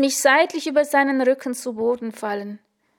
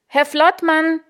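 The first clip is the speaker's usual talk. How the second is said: higher, louder desperate call; 6 semitones higher, 6 dB louder, slower than usual. Acted. Panicking rider calls out to her instructor. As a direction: shout for the instructor to help.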